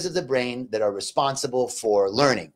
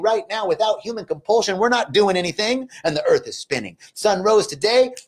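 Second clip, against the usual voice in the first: higher, impassioned prayer of thanks; rolling, insistent affirmations in a raised pitch; fervent gratitude prayer; 4 semitones higher than usual. Real, not acted. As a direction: pray aloud with rising fervor, pitched up.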